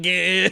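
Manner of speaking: imitated jolt of a taser victim; mock tasered groan. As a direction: play a short strangled cry of being zapped. Imitates man hit by a taser.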